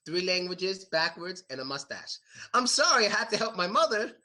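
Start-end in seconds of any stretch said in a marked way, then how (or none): 2.5-4.2 high, eager mock apology; lightly voiced friend pleading with boss; apologetic employee. Friend apologizes to his boss for being late, mock pleading.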